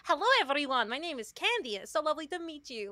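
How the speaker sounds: old put-on VTuber voice. Shown as a demonstration. VTuber shows her old accent, sweet Candy greeting. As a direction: introduce yourself as Candy, sugary and polite. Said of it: "Like, that kind of more vibe".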